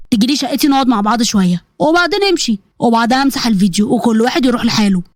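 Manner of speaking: lightly voiced sly male caller; menacing blackmailer. Blackmailer to the girl who hung up, sly menace. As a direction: coax her with a hint of threat. Samir makes his demand.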